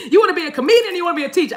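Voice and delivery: high-pitched, laughing tease. Real, not acted. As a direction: tease through leftover laughter. Teases herself while laughing.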